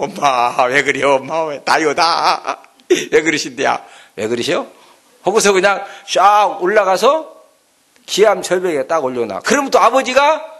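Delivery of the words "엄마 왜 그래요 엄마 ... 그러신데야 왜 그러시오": a hint of a baby bird begging; lightly voiced chick dragging out its plea; pleading eaglet. Eaglet pleading, dropped by mother.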